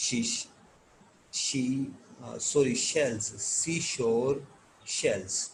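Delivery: real tongue-tied halting on a tongue twister; flustered stumbling. Real, not acted. Teacher disturbed while reading the twister, stumbling and correcting himself. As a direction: lose your way, restart with long gaps and an apology. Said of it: "پڑھنے کے دوران میں خود disturb ہو گیا ہوں".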